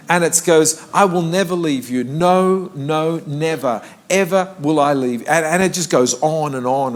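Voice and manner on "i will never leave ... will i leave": a touch louder, building emphasis; mock-amplify the verse, pushing it out; amplified reading. Shown as a demonstration. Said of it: "the amplified version of the Bible just makes it louder".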